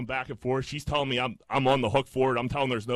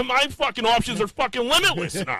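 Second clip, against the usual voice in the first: laughing; 11 semitones higher, 4 dB louder than usual. Real, not acted. Excited brag, laughing heard.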